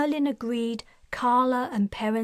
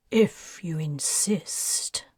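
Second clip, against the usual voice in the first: menacing; 5 semitones lower, slower than usual. Acted. Merlin accepting the duel, menacing. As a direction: threaten without raising it. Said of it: "his tone full of menace".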